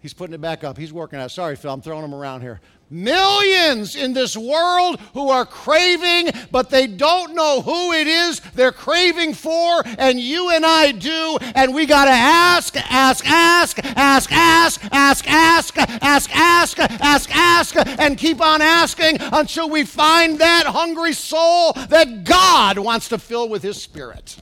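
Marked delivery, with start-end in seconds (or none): 2.9-12.8 loud, high, slow preacher's shout; hammering each ask louder and higher; full-force preaching. Acted. 12.9-17.8 each ask punched loud and high; repeated ask. Acted. Repeated hammered word. 18.0-24.4 loud, high, slow preacher's shout; hammering each ask louder and higher; full-force preaching. Acted.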